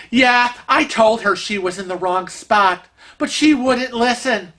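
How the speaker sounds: lightly mocking I-told-you-so; retold vindication. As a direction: imitate someone pointedly saying they were right. Kevin's retort as lady is corrected.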